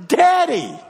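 Daddy yelled high and loud; shout daddy. Shown as a demonstration. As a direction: cry it out at the top of your lungs. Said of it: "You shout at the top of your lungs".

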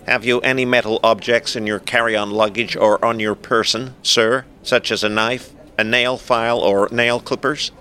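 lightly voiced formal airport official; rigid ticket staffer. Rigid ticket staffer questions a passenger about metal objects, lightly officious.

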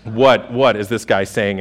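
rulers muttering in alarm at the preacher; dismayed mutter. Retold or imitated. Synagogue rulers dreading the sermon, hushed dismay. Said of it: "they're going".

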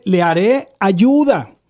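ayuda drawn out slowly and leaned on; slow down and lean on the word ayuda; stressing ayuda. Shown as a demonstration. Pastor to listeners, slowly stressing ayuda. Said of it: "quiero recalcar esta palabra".

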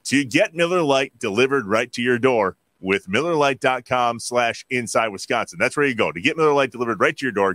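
measured, polished sponsor read. Acted. Host tells listeners where to get beer, ad read. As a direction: sell the beer like a radio spot.

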